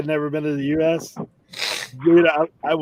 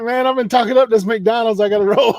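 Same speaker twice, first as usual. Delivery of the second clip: laughing; 6 semitones higher, 3 dB louder than usual. Retold or imitated. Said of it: "He's like".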